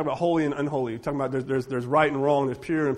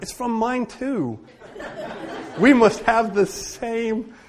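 higher, slow, laughing through it; laughing reply; 8 semitones higher, slower than usual. Real, not acted. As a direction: chuckle as you answer.

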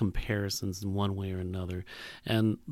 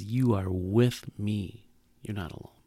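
tender reassurance; 4 semitones lower than usual. Pretend. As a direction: comfort a frightened child gently. Voicing God's tender reply.

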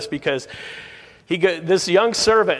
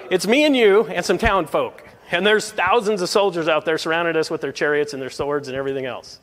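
panicked disbelief. Retold or imitated. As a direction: protest in alarm at the calm old prophet. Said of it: "I could just see him".

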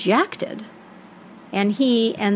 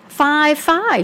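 second Baba Yaga; 8 semitones higher, 4 dB louder than usual. Acted. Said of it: "there was another Baba Yaga".

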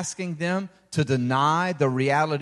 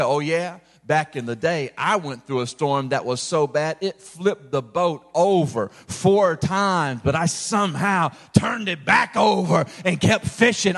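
a lightly voiced boastful fisherman, dropped lower; bragging old sailor; 3 semitones lower than usual. Salty sailor bragging about surviving a storm, lightly voiced boast. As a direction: play the tall-tale teller puffing himself up. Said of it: "These are the kind of guys who say".

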